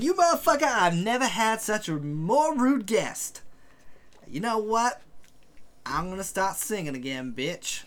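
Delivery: villain's threat. Acted. Game master voices the rude host threatening to sing, high villain voice. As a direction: snarl it high, then drop into the threat. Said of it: "She's like".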